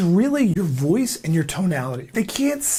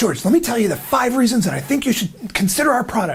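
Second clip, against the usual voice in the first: rushed, high-pitched, rattled-off delivery; 5 semitones higher than usual. Showing salespeople the wrong way to open a call, rushed sales pitch. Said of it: "So instead of saying".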